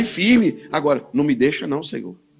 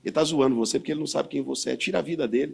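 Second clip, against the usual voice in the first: sly devil's voice close to the ear; devil whispering in ear; 2 semitones lower, 5 dB quieter than usual. Retold or imitated. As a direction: murmur like the devil egging him on. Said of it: "falar no meu ouvido assim".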